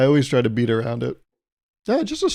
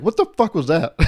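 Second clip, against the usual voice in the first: mock shocked outburst; 4 semitones higher than usual. Shocked at himself.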